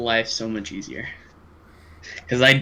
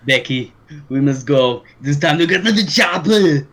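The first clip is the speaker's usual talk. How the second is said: Arnold Schwarzenegger voice; 4 dB louder than usual. Pretend. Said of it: "Arnold Schwarzenegger".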